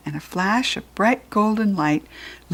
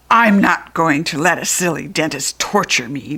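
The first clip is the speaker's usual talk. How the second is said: louder, shrill refusal; screech; 2 semitones lower, 5 dB louder than usual. Acted. Jack Frost refusing the dentist, loud screech. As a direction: screech defiantly. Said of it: "Jack Frost screeched".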